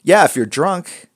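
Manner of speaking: high, loud jokey "yeah"; joking exclamation. Real, not acted. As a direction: toss off a cheeky joke. Joking answer to chat.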